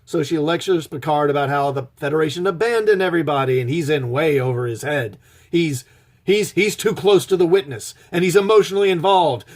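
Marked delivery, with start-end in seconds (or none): 5.5-9.4 a hint of a gruff police captain, higher and faster; cop movie captain. Reviewer mocks an eighties cop captain scolding Picard, lightly voiced. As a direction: lightly play the exasperated captain laying out the problem.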